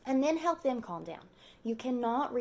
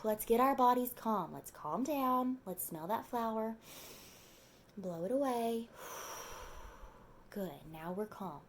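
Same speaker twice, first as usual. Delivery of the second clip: soothing breathing guide; 3 dB quieter than usual. Shown as a demonstration. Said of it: "tell them".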